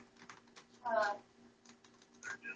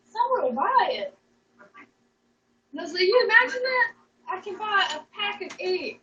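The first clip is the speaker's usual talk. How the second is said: higher-pitched, animated retelling of a sales pitch; retold excited pitch; 4 semitones higher than usual. Retelling an underwear money-making idea to viewers, excited. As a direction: pitch it eagerly in a raised voice.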